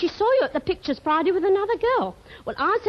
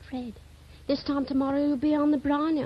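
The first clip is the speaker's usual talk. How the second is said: ordinary talk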